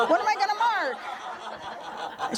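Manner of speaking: high, slow wail through laughter; laughing, drawn-out helpless question; mock dismay. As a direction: imitate a flustered complainer, laughing as you go. Imitating flustered canvasser, laughing.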